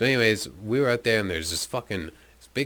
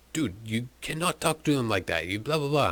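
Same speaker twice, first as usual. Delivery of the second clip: higher-pitched mock telling-off; exasperated reprimand, acted out in a raised pitch; retold scolding; 4 semitones higher than usual. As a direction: imitate someone scolding a friend, pitched up. Retold scolding from South African.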